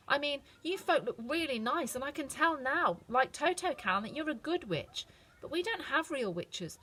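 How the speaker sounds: put-on a polite farm girl, a bit wistful; Dorothy. A narrator's reading. Dorothy tells the Munchkins about home, girlish.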